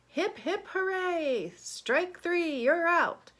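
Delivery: high, excited cheer; storybook exclamation, pitched well up; read-aloud shout. A narrator's reading. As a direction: call it out like an umpire and a cheering crowd. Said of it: "you have to shout".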